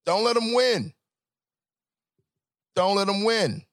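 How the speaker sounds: rally them, firm and loud; urging his brothers not to let them win; rallying cry. Real, not acted. Exhortation to listeners.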